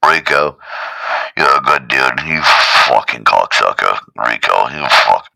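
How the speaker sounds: low, loud, slurred-sounding abuse; Caps impression. Caps as the alarm cursing Rico, low loud impression. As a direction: growl insults then grudging praise. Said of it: "She's got, like, a Caps accent".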